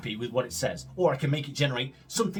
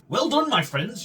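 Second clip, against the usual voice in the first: smiling; 8 semitones higher, 4 dB louder than usual. A narrator's reading. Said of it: "with a big smile on your face".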